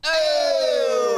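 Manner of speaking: sudden exclamation. Real, not acted. Sudden outburst mid ad read.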